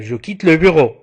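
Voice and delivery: ordinary delivery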